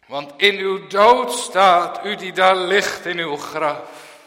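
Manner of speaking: loud, high, slow pulpit proclamation; Paul preaching. Retold or imitated. Paul telling the dead in their graves, loud proclamation. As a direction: proclaim it as the apostle. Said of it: "dan zegt Paulus".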